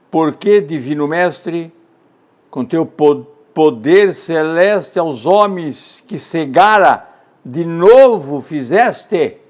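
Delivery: slow, solemn verse reading; measured poetic cadence; poem recitation. Acted. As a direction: declaim it as a question to the divine. Recites Francisco Otaviano poem.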